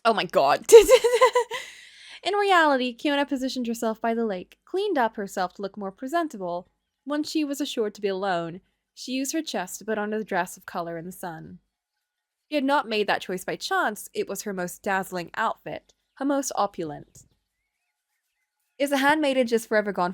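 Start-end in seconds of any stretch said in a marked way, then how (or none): 0.0-2.2 a loud, high laugh that breaks out. Real, not acted. Reacts to Kiona's scheme. 2.2-17.2 calm storybook narration; story narration. A narrator's reading. Reads the game's story.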